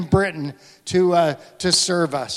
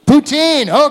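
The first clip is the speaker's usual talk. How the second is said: excited affirmation; 8 semitones higher, 8 dB louder than usual. Real, not acted. Affirms audience answer loudly.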